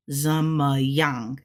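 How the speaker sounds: "zun, ma, yang" run together as a model; tone demonstration. Shown as a demonstration. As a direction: say "zun, ma, yang" syllable by syllable, joined up. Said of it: "And that's fast. That is second. That is fourth tone".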